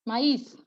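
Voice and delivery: "maize" as two syllables, ma-EES; vowels sounded separately. Shown as a demonstration. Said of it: "You're gonna say".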